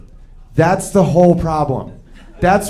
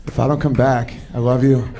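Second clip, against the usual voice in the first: mock heroic farewell; 7 semitones lower than usual. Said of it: "she's like".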